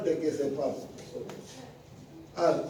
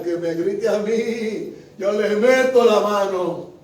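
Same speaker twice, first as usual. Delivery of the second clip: slow, drawn-out boastful retort; mock bravado; 4 dB louder, slower than usual. People boasting they can fight back, mock bravado. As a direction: imitate someone talking big, stretching the words. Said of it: "la gente dice".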